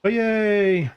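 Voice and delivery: a quick pleased cheer; little cheer. Real, not acted. Celebrating the new profession to viewers with a high cheer.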